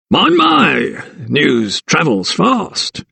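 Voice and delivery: a high, slow snigger of a scornful keeper. A narrator's reading. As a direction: snigger the words mockingly. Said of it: "he sniggered".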